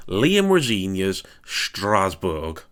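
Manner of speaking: slow, playful French accent on the name. Shown as a demonstration. Vlogger playfully puts a French accent on the club name. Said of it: "I don't know why I put the accent on".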